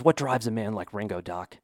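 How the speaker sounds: put-on a hushed, lightly done Western accent, as Wyatt Earp; mock Western accent. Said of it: "I'm gonna use an accent".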